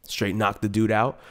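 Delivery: ordinary talk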